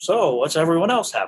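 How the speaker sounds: put-on nineteen-forties old-Hollywood mid-Atlantic accent. Retelling Gary Oldman's line from a take, in his 1940s mid-Atlantic accent. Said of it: "In his nineteen forties acc mid-Atlantic accent".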